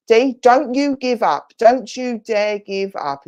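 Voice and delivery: mock stern spirit scolding; forceful command. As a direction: order her not to give up, slowly. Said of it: "She went".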